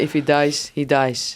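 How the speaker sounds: deep, slow Drago line. Shown as a demonstration. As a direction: drop the voice low and cold. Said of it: "Can you say".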